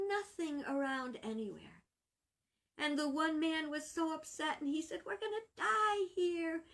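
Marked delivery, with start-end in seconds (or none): 5.1-6.6 high, frantic cry of despair; panicking. Acted. Stranded shipwreck survivor panics to his companion, high and frantic. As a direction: blurt it out in rising panic.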